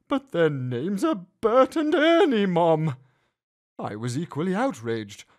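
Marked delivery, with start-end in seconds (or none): 0.1-2.9 demanding. A narrator's reading. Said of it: "my son demanded".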